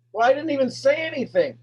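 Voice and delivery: defensive protest. Retold or imitated. Defensive seller voiced.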